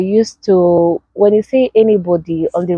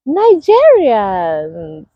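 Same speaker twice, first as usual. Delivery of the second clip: excited shout; 3 semitones higher, much slower than usual. Real, not acted. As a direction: call the name out like a winner. Announcing happiest-country result.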